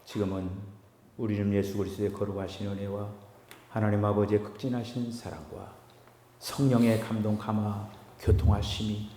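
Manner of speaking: soft, chanted closing blessing; quiet, sustained intoning that swells midway; solemn benediction. Real, not acted. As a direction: pronounce a hushed blessing over the congregation.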